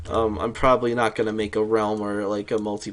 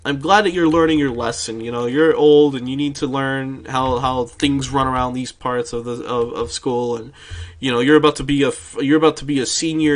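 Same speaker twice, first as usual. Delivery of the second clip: loud, preachy teacher lecture; lecturing teacher; 5 dB louder than usual. Retold or imitated. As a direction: lecture like an over-the-top teacher. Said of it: "and she was like".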